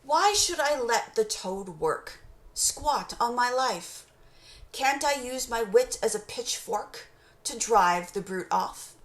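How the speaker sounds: slow down and lean on the off rhymes. Shown as a demonstration. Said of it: "Listen to that again".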